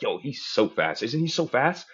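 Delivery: put-on hype, drawn out then rising; amping them up. Humoring a sports fan, amped-up agreement. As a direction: play up the excitement for a fan. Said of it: "amp 'em up with, like, their type of dialect".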